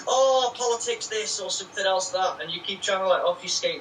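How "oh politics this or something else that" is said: higher, slow sneering brush-off; mocking dismissive voice. Mocking the rival's dodge, higher and slow. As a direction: mimic a dodgy deflection, drawn out. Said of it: "And you're like".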